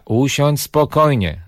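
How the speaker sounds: imitating a parent. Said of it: "to powtarzają co chwila".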